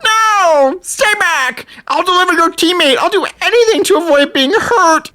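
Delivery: high, panicky cowardly villain; panicked villain. Acted. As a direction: squeal it like a coward begging. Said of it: "Diablo responds".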